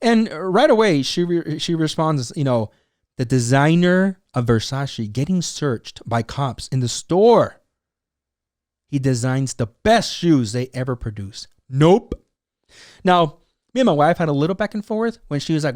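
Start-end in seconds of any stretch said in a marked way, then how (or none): 3.2-11.5 slow, measured quoting; deliberate read-out. Retold or imitated. Host reading Ruby Rose's post, deliberately. 11.7-12.1 NOPE set apart with a rising pop; emphatic nope. Retold or imitated. Host quoting the post's ending, emphatic NOPE. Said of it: "I honestly think that Ruby Rose is like".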